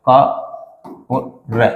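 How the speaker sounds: क और र stretched very slowly; slow breakdown. Shown as a demonstration. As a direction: spell the two parts of क्र. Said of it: "क्या है".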